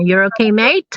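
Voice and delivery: casual Kiwi check-in, rising on "mate"; light Kiwi accent, "mate" toward "mite". Shown as a demonstration. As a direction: ask it like a New Zealander. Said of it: "Pero dito yung mga Kiwi".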